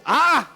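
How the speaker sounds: short mock cry; brief acted "ah"; imitated demon shriek. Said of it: "el demonio ese día en la sinagoga sí chilló".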